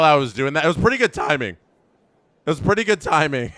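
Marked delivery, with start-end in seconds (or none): 2.5-3.5 fast, laughing through the words. Real, not acted. Streamer laughs at his own strike call timing. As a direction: giggle it out, amused at yourself. Repeats the line, then laughs.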